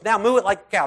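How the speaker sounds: high, loud, gleeful; excited laughing call. Retold or imitated. Mom laughing with her son, loud and gleeful. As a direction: shout it out like a game with a kid.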